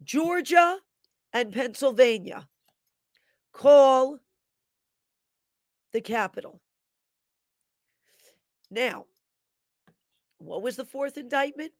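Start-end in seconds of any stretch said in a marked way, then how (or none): 0.0-6.6 mock voice from the dream. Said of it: "I'm hearing the voice".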